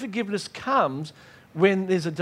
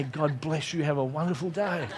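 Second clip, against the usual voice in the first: sweet blessing; 3 semitones lower, 5 dB quieter than usual. Acted. Sweetly blessing rude people.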